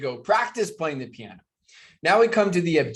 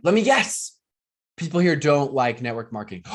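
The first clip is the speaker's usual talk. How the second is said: knowing quip; 4 dB louder than usual. Retold or imitated. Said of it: "I'm like".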